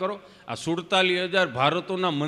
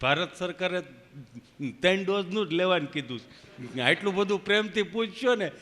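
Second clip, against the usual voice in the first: a hint of halting stammer; Gabho, tongue-tied. Friend joking to nurse about extra doses, lightly halting. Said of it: "જીભ જલાય સોંટે અટકે".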